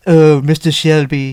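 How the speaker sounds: slow, lightly put-on French accent; a light French accent, breathing the name; mock French accent. Host imitating a French game character, light French accent. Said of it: "French prostitute lady".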